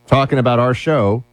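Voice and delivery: fake British accent. Host introducing the BBC clip in a fake British accent. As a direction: announce the clip like a plummy British presenter. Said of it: "they train them to speak this way".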